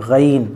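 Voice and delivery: غین soft, from inside the throat; soft ghain. Shown as a demonstration. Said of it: "soft". (غین نرم، اندر سے)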